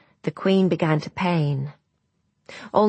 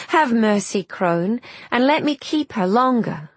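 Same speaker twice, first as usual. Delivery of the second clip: pleading; 5 semitones higher than usual. Acted. Queen begs the crone.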